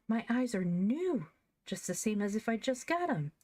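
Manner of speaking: bursting with wonder at her new eyes; eager, earnest. Acted. Girl showing her mother her healed eyes, eager and high. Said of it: "she asked earnestly".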